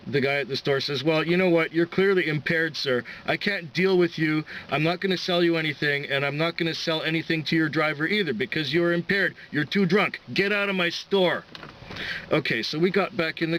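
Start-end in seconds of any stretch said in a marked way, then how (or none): 1.0-11.4 firm storekeeper. Retold or imitated. Storekeeper refuses drunk customer.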